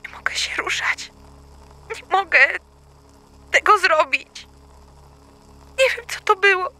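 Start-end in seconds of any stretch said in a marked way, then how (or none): 0.1-2.0 terrified whisper. Acted. Frozen in fear, whispering.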